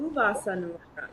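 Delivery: quick, light Ooh, Vasa Nulora; Ooh, Vasa Nulora with a quick, playful ooh; cooing ooh. Shown as a demonstration. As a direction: open on a soft cooing Ooh. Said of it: "and mine is".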